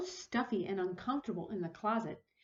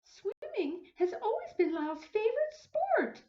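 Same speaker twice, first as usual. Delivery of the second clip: smiling; 11 semitones higher than usual. Acted. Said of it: "smiled Missus Prim".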